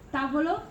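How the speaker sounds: "tavolo" stressed on "ta", rest slipping away; stress on first syllable. Shown as a demonstration. Teacher giving a sdrucciola example, first-syllable stress. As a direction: hit "TA" in "tavolo", let "volo" slide. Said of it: "accent on the first one".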